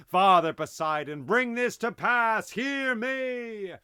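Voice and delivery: blinded Cyclops crying out to his father Poseidon; loud curse. Acted. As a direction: call down the sea god's wrath. Cyclops curses, arms raised to sky.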